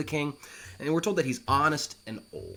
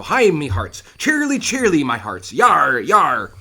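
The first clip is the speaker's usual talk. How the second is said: sailor shouts; 3 semitones higher, 11 dB louder than usual. Acted.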